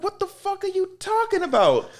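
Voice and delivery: high, loud, whiny outburst; retold high-pitched yelling complaint; whiny protest. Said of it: "He was like".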